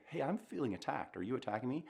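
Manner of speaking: softly voiced, open question about feeling attacked; calm honest question. Shown as a demonstration. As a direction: ask it gently, without blame. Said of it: "if I'm feeling attacked and I say".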